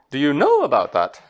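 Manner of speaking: amused read of the English; chuckling contrast example; laughing English version. Shown as a demonstration. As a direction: Do you know about that said through a laugh. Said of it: "we don't say".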